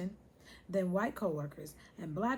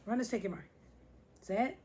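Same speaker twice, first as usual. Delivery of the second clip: race starter's call. Pretend. Plays race starter before sound effect.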